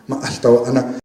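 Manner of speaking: "Ma, alta, wa, ana" joined up, with no k sound; consonant left out. Shown as a demonstration. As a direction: run the pieces "Ma, alta, wa, ana" together as one word. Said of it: "fonéticamente probablemente sería así".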